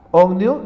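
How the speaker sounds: "ohmio" dicho claro y completo, o-hmio; pronunciación modelo. Shown as a demonstration. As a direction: pronuncia "ohmio" despacio para que lo copien. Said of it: "Esto se pronuncia ohmio". ("ohmio", con la sílaba "oh" bien marcada)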